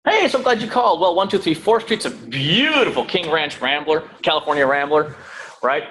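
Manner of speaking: gushing salesy pitch, rushed; the wrong way: an agent gushing facts at a caller; eager info dump. Shown as a demonstration. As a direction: overeager agent blurting property facts. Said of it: "Do not just start instantly puking on them information".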